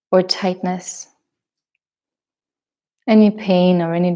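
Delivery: measured meditation guidance with long pauses; guided meditation. Acted. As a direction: guide them gently into the breath, leaving space between phrases.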